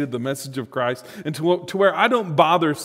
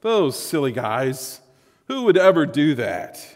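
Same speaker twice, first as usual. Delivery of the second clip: slow, drawn-out condescension on the first words; acted-out smug disbelief; arrogant dismissal. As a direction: look down on them with mild mock arrogance. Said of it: "look on that with some arrogance".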